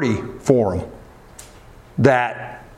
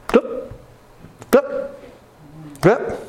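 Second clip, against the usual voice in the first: dripping sound; 6 semitones higher, slower than usual. Retold or imitated. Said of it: "all night long you hear it".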